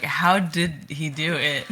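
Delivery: slow, drawn-out question; mock disbelief. Quoting a line with the same emotion, slow mock disbelief. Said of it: "like, the same emotion as".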